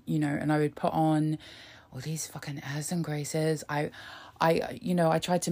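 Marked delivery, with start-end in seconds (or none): 1.9-3.6 whispered aside. Real, not acted.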